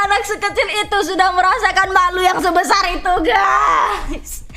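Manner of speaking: anguished exclaim. Real, not acted. Exclaiming at childhood shame.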